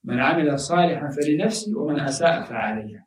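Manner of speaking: rapid melodic Arabic recitation; fast Quran recitation. Acted. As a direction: recite the verse quickly in one breath.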